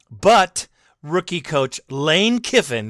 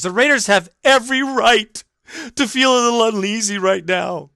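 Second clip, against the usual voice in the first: higher, mock-prissy quote voice; mocking reading; 3 semitones higher than usual. Host mocking a columnist's line, snide. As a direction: parrot her words snidely.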